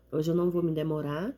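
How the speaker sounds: usual speaking voice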